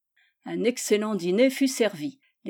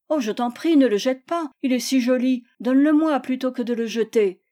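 higher, lightly acted plea; pleading child; 3 semitones higher, 4 dB louder than usual. Théodore begs Gisèle for the knife, pleading. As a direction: beg like an eager child.

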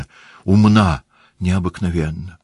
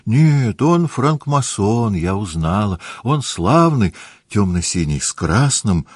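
put-on girlish chatter; 3 semitones higher, slower than usual.

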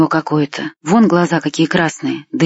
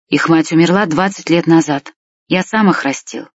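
ordinary delivery

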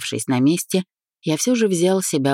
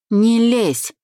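sharp, higher-pitched snap; barked warning; 8 semitones higher, 3 dB louder than usual. A narrator's reading. Friend warns narrator off his affairs, barking. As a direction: cut him off with a bark. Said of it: "рявкнул он тут же".

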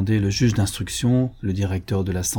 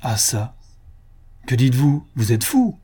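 exclaimed; 2 semitones higher than usual. Acted. Stunned president exclaiming at the witness, sharp outcry. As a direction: cry out in disbelief. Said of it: "s'écria".

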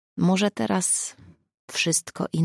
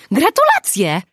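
congratulations; 9 semitones higher, 8 dB louder, slower than usual. A narrator's reading. Congratulating friend with hug.

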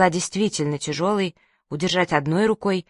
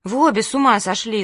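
mock crying; 3 semitones higher than usual. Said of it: "заплакала я".

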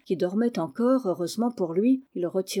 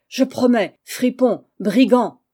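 loud, grudging promise turning to abuse; exasperated outburst; furious surrender; 3 semitones higher, 8 dB louder than usual. A narrator's reading. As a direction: give in angrily, spitting insults. Cousin yields while insulting him.

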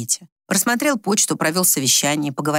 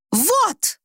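shriek; 14 semitones higher than usual. A narrator's reading. Wife shrieks to the children in triumph. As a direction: squeal it like proof. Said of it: "взвизгнула Тамарочка".

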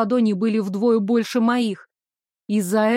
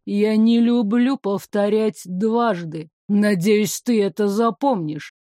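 thundering voice. Acted. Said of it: "прогрохотал голос".

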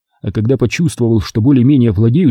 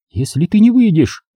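growled; 8 semitones higher than usual. A narrator's reading. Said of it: "прорычала она".

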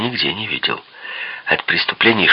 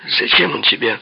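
sudden raised-pitch question; sharp, abrupt question; 6 semitones higher than usual. A narrator's reading. Peppi demands why he wants Kelly, sharply. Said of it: "Вопрос был резким и неожиданным".

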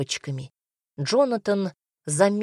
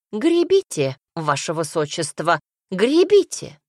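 urging on; 3 dB louder than usual. Acted. Dwarf director goads the rowing prince, urging. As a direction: cry out the order to row.

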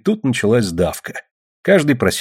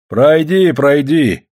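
raised, urging repeated invitation; approving encouragement; 5 semitones higher, 5 dB louder, much slower than usual. A narrator's reading. Men encourage Ksenia to step up, approving. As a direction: urge her forward approvingly. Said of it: "одобрительно заговорили мужики".

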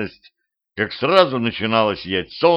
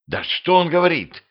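higher-pitched, nagging question; impatient curiosity; 8 semitones higher than usual. Acted. Vampire girl nudges Petrovich for translation, impatient. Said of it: "с недаемым любопытством".

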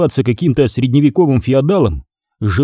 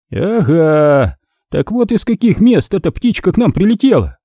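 higher, gloating sing-song; knowing singsong; 6 semitones higher than usual. A narrator's reading. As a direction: savour the catch. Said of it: "понимающе пропел шеф".

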